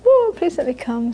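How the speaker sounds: lightly imitated upset mother pleading. Mother begs daughter to let her attend talks, mildly upset pleading. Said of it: "she'd get upset".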